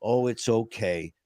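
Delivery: slow, mild mock-motherly soothing; drawn-out retold comforting; motherly reassurance. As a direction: lightly imitate a mother letting it go. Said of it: "in a mother's way, she goes like this".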